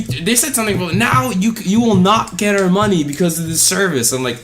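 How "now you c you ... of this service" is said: high, snooty customer voice; mocking angry customer. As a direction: threaten them like an offended customer.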